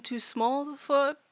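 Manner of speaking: earnest, broken-English fairy voice; fairy reasoning it out haltingly; small fairy student. Acted. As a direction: explain the danger in simple, careful words. Fairy explains its small size.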